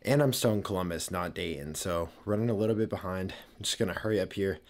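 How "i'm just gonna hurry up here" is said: breathless, hurried talk; out of breath. Real, not acted. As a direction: speak short of breath from rushing. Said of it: "I don't know why I'm out of breath right now".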